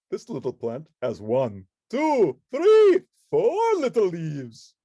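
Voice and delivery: building to a loud high three, then slow; the Count counting. Acted. The Count counting clover leaves, building excitement. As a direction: count each leaf with mounting glee.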